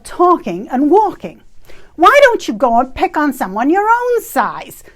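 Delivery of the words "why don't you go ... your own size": indignant outburst. Retold or imitated. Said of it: "I expressed aloud".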